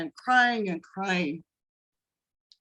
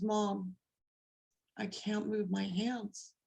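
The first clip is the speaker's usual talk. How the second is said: retold whisper; 12 dB quieter, slower than usual. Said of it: "she whispered to me".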